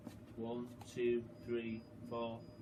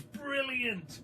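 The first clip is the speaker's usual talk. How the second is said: put-on higher, odd boyish cry of delight; gleeful; 10 semitones higher than usual. A narrator's reading. George delighted by the label, a boyish cry. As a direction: exclaim it like a delighted boy.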